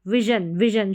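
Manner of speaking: विजन with a short i, then zhun. Shown as a demonstration. Teacher showing the short vowel, विजन with short i. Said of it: "short sound है आई का".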